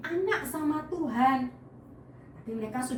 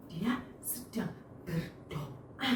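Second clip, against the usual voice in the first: much softer and slower, almost a hush; hushed, soft and slow, like a silent prayer; quiet prayer voice; 7 semitones lower, 10 dB quieter, slower than usual. Shown as a demonstration. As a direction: say it as if praying in your heart. Showing a silent, inward prayer.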